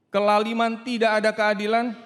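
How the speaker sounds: loud protest of injustice; Job crying out. Acted. Job protesting aloud that there is no justice. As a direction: cry out against injustice. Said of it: "Ayub teriak".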